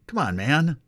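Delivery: Joe impression. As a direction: toss it off like the president. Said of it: "as Joe says".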